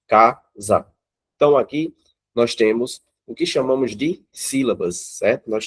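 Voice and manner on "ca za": Ca, za split in two beats; Ca and za said as separate pulses; syllable by syllable. Shown as a demonstration. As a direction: tap out the two syllables of casa. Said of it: "sa, certo?".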